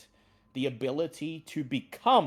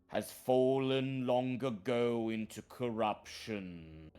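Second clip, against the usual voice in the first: talking tree. Acted. Treant warns of corrupt druid.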